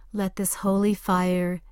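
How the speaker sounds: slow hushed whisper. Acted. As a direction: whisper it slowly, drawn out. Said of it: "closing fire visualization".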